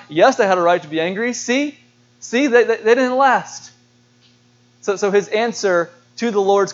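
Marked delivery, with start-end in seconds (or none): 0.1-3.7 gloating Jonah. Retold or imitated.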